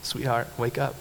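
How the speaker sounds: soft, quiet coaxing; gentle wake-up. Retold or imitated. Jesus softly waking the little girl, gentle and quiet. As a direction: wake a child kindly. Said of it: "just says".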